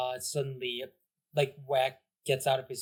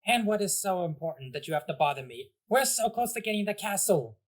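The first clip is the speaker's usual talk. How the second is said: kitty voice; 5 semitones higher than usual. Acted. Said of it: "kitty voice on the other end just goes".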